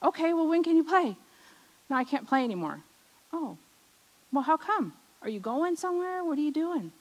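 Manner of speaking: put-on high, puzzled childlike questions; a child hurt and confused by her best friend; surprised child. Surprised, high and confused. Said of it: "I went".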